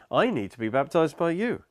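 "I" lifted high and stressed. Retold or imitated. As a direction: lean on "I" to contrast it with you. Contrasting who needs baptism, as John.

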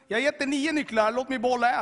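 loud, high-pitched protest; frantic bargaining. Retold or imitated. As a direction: plead at full volume to keep one. Bargaining with God while running about. (högljutt, uppjagat köpslående)

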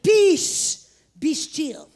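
high shouted command, then settling; retold authoritative proclamation; loud with authority. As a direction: burst out on the first word like commanding a storm. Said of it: "I spoke loud with authority".

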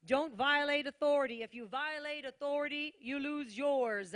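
preacher's emphatic repeat. Shown as a demonstration. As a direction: drive the line home a second time, hard. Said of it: "I'm gonna say it again".

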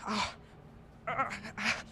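soft, broken cries of pain; gasps of pain. Acted. Young visitor caught by a prisoner's grip, gasping. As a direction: gasp as your hand is wrenched. Hand twisted through the bars.

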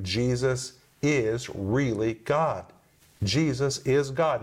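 slow, weighty stress on God; emphatic declaration. Shown as a demonstration. Preacher tells his audience Jesus is God, slow and emphatic. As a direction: lean hard on the final God, slowly. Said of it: "The Greek is very emphatic".

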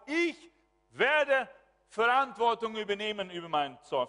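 high, forceful preacher's declaration; loud resolute vow. Acted. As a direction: proclaim it like a firm personal pledge.

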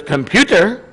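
a hint of Scotty's Scottish accent calling computer; lightly imitating Scotty's Scottish lilt on Computer. Preacher imitating Scotty talking to a computer, light Scottish accent. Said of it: "He had that Scotty accent".

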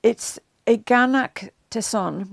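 eganakteson said slowly, syllable by syllable; careful Greek word. Shown as a demonstration. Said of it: "I can't pronounce properly".

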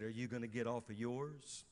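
quiet voice of God asking a second question; soft whisper. Retold or imitated. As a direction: speak it gently and low. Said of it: "he whispered again".

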